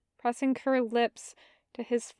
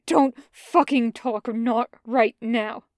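angry snap; 4 dB louder than usual. Acted. Bren snapping at Jester.

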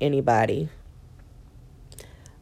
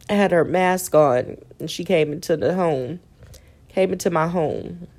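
laughing through pain. Real, not acted. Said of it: "it hurts to laugh".

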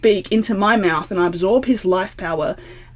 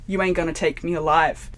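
Clint Eastwood; 3 semitones lower, 4 dB quieter than usual. Retold or imitated. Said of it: "like in Clint Eastwood styles".

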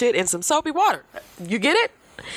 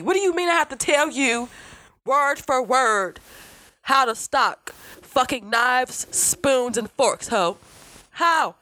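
exasperated rant; 4 semitones higher, slower than usual. Real, not acted. Exasperated rant about coworker.

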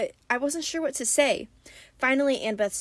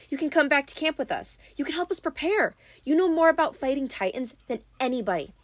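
Annabeth pleading; 5 semitones higher than usual. Acted. Annabeth voiced by narrator.

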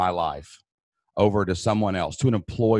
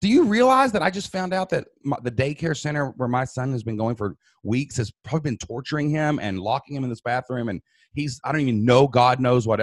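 shocked disbelief; 3 semitones higher than usual. Retold or imitated.

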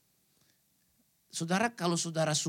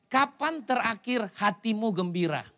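1 slow probing question. Shown as a demonstration. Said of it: "Coba saya tanya sama saudara".

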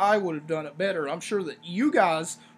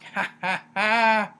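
imitated villainous cackle, building louder; mock cackle; 2 semitones higher, 5 dB louder, slower than usual. Reviewer imitating an unworried wrestler in an interview, mock cackle. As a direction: fake a cackle, ha by ha.

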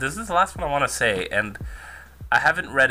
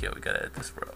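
whispered aside; 10 dB quieter, faster than usual. Retold or imitated. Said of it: "Dusha's like".

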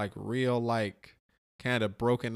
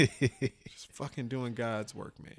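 laughing; 2 semitones lower, much slower than usual. Real, not acted. Laughing at his own joke.

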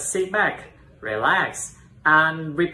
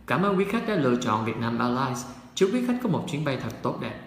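flight attendant. Pretend. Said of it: "let's try the cabin crew public announcement".

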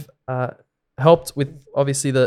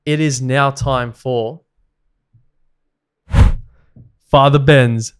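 announcer voice; 2 semitones higher, 4 dB louder, much slower than usual. Acted. Mock announcer segment intro.

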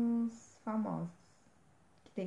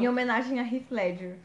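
laughing; 8 dB louder than usual. Real, not acted. Joking podcast dedication.

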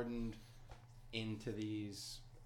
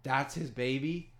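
high, loud astonished voice; amazed giant; 4 semitones higher, 9 dB louder than usual. Retold or imitated. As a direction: gasp it out in disbelief.

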